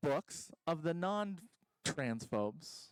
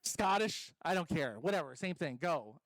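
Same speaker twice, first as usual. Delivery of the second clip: bored coach again; 2 semitones lower than usual. Retold or imitated. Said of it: "He's like".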